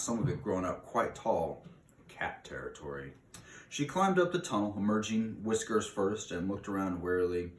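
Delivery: steady read-aloud storytelling voice; story narration. Acted. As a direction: read the chapter aloud to listeners. Reads a novel aloud.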